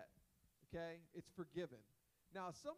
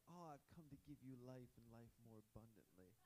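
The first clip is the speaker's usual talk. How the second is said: breezy quote; 6 semitones lower, 11 dB quieter than usual. Retold or imitated. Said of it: "we love the scriptures where Jesus is like".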